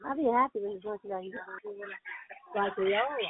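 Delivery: straining while talking; grunting from effort. Real, not acted. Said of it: "I am sorry to be grunting".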